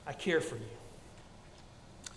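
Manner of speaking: slow breathy whisper of God. Acted. Pastor voicing God's comfort to listeners, whispered and slow. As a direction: breathe it softly like God's own voice.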